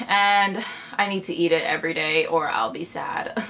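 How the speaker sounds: hushed joking whisper. Real, not acted. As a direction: whisper it like a secret. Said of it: "joking about needing bacon daily".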